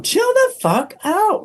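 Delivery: high, slow, drawn-out self-scolding yell; mock yell at himself. A man stuck in traffic yelling at himself, mock shout. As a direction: bark the order at yourself to calm down. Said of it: "I really said out loud".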